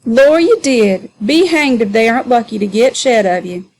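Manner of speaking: provoking Sambo. Acted. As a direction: needle him with a grin in your voice. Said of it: "with a provoking grin".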